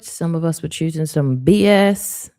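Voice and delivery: laughing through B S experiences. Real, not acted. Psychic jokes to viewers about bad choices, laughing. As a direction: giggle your way through it.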